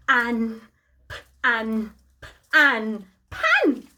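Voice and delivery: lightly robotic sounding-out, flat and spaced; robot talk. Pretend. Costumed robot gives children a word clue, lightly robotic. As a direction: drone the sounds like a toy robot, only a hint. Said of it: "he can only do his Robotalk".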